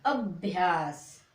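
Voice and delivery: अभ्यास drawn out very slowly, the half भ said quickly into या; अभ्यास modelled slowly and repeated for pupils; slow teaching demo. Shown as a demonstration. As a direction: sound out अभ्यास slowly for beginners. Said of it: "कैसे पढ़ोगे?".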